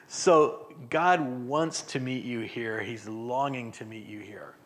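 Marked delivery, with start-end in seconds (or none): none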